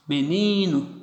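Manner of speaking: Menino with NI lengthened; stress on middle syllable. Shown as a demonstration. Teacher demonstrating penultimate stress, Menino with a held NI. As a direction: lean on the NI of Menino. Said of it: "penúltima".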